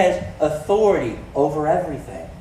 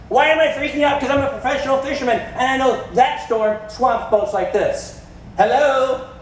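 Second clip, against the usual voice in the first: panicked disciple; 6 semitones higher than usual. Acted. Disciple shouting at Jesus in the storm, high and frantic. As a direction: sell the panic of a soaked fisherman. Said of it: "disciple panicking in the storm".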